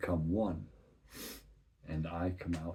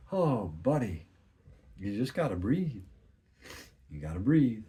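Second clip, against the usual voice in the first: gentle coaxing; 3 semitones higher, 5 dB louder than usual. Acted. Comforting the broken inner part.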